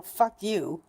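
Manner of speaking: bitter, frustrated cursing; fed-up angry swearing; real anger. Real, not acted. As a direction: curse the illness, slowing down on the last words. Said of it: "And I'm angry".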